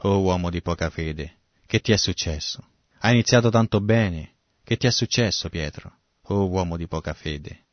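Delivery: mild, kindly chiding of a disciple; smiling gentle reproach. Acted. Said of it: "Gesù che sorride e dice". (rimprovero bonario e sorridente)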